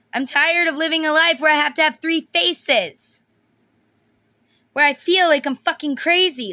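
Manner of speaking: voicing a man who feels crazy, ranting loudly; frantic rant. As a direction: rant like he's losing it. Acting out frantic masculine rant.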